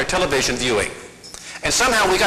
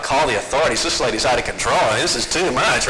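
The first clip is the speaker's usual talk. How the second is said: mock outrage; 6 semitones lower than usual. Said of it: "I thought".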